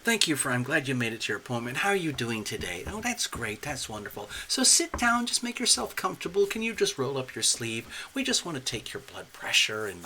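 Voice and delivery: a hint of chatty clinic staff; lightly voiced doctor. Doctor greeting Taylor for an appointment, light role-play. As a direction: put on a mild doctor's-office patter. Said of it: "and they say".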